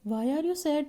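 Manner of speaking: softly asked "Why are you sad?", tune falling; sad, falling question. Shown as a demonstration. Teacher demonstrating pitch on a sad question, soft concern. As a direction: let "sad" drop away softly. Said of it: "why जब हम बोलेंगे तो हमारी pitch लो हो जाएगी".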